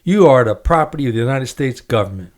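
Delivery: measured book reading with acted quotes; reading aloud. Host reads guest's memoir aloud on air, quoting lightly. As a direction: read the memoir passage to the guest, lightly voicing each speaker.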